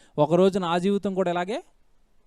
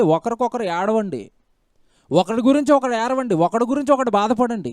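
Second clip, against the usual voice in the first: higher-pitched, insistent preaching; impassioned exhortation; 3 semitones higher, 4 dB louder than usual. Real, not acted. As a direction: urge the congregation with rising fervour. Preacher urging people to weep.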